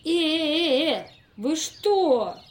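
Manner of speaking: loud startled "hey"; alarmed protest. Acted. Investigator protesting loudly as the tramp tastes the bottles. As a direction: stop him mid-sip, loud and alarmed.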